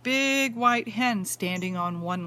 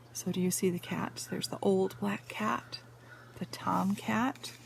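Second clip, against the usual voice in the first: whisper; 2 semitones lower, 6 dB quieter than usual. Real, not acted. Points out cats to child.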